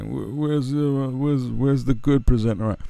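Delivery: high, puzzled imitation of the rapper; mock confused rapper. Rapper mocking the host, high and puzzled. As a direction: pitch it up, lost and looking around. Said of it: "he's probably like".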